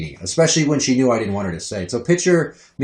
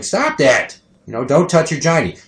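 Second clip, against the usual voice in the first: higher-pitched telling-off; raised-voice parent's warning; parental scolding; 4 semitones higher than usual. Retold or imitated. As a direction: scold a toddler.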